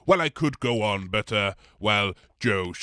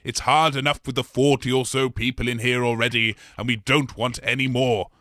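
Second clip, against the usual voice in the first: firm warning; 5 dB louder than usual. Acted. Blob lecturing Jack firmly.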